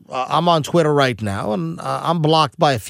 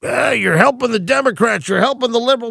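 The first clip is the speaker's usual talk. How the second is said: mock angry fan; 6 semitones higher than usual. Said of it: "that yell at me".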